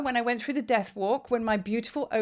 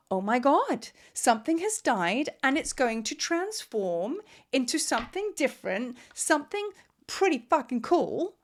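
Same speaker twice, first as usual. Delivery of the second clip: put-on childlike awe; 3 semitones higher than usual. To viewers, imagining death as transformation, childlike awe. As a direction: gasp it out like a delighted child. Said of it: "childlike awe".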